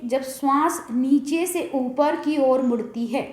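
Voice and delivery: slightly slow, measured sutra reading; measured recitation. Real, not acted. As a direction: read out the sutra at a measured pace.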